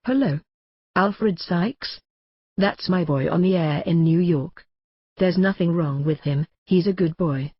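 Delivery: half-hearted presidential father voice; mild George Bush imitation vouching for his son; George Bush impression. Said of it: "I put on my best George Bush voice".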